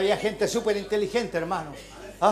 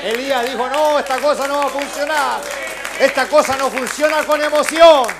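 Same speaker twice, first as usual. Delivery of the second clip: loud, rising preacher's call; fervent pulpit preaching; preaching at full force; 5 semitones higher, 10 dB louder than usual. Real, not acted. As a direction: drive it home to the congregation.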